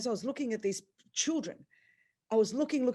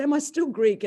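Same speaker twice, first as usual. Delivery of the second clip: Greek asked louder and higher but quicker, less stretched; retelling the question, a touch calmer; shocked repeat; 7 semitones higher, 8 dB louder than usual. Retold or imitated. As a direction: say it again, still reeling, more matter-of-fact. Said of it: "I was just shocked".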